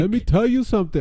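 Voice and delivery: a quick, high-pitched attempt at Becky's Irish brogue, abandoned at once; attempted Becky Lynch voice. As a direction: try her accent and give up. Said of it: "Oh, no, I can't do it".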